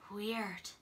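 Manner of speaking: soft breathed word. Acted. Benjamin reacting softly to Charlie's strange story. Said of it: "breathed Benjamin".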